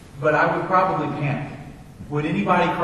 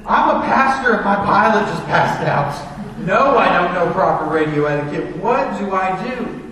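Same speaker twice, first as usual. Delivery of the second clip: panicked; 3 semitones higher, 6 dB louder than usual. Retold or imitated. Panicked pastor explains to radio.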